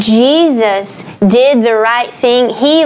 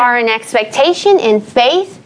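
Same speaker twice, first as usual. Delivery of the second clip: Southern accent. Real, not acted. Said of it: "your Southern accent is coming right now".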